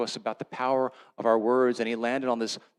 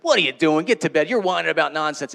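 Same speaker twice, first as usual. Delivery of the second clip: louder, impatient scolding; annoyed parent; 7 dB louder than usual. Pretend. Father scolding his daughter for staying up, annoyed. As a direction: scold like an irritated parent at night. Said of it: "gone up there with annoyance".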